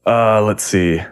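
ordinary talk

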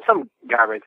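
normal talking voice

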